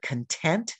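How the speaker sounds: "content" stressed on the second syllable. Shown as a demonstration. Teacher introducing a vocabulary word, "content" stressed on its second syllable. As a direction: say "content" as con-TENT, weight on the end. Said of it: "emphasize the second syllable".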